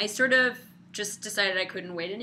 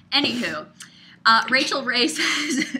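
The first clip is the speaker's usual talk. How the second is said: grumpy cat impression; 3 semitones higher, 8 dB louder than usual. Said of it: "that was my grumpy cat impression".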